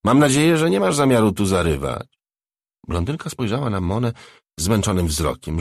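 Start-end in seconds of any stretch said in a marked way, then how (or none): 0.0-2.1 loud, high start easing downward; raised voice, as if delighted; joyful shout. A narrator's reading. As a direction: call out gleefully to a stranger. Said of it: "krzyknęła gruba jakby z radością".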